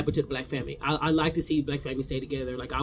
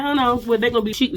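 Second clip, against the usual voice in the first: mock outraged refusal; 6 semitones higher, 4 dB louder, faster than usual. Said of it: "I said".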